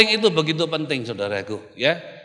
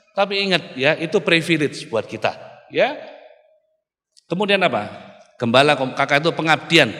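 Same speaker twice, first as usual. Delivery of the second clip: usual speaking voice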